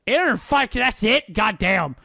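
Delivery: can't believe how cheap it is; loud, high, delighted disbelief; surprised. Real, not acted.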